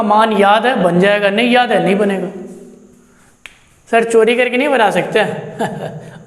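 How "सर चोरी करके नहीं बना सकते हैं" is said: slow, chuckling mock student asking sir; slowed-down giggling question from an imaginary student; laughing student question. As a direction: play the cheeky pupil, laughing as you ask. Teacher voices a student's cheeky question.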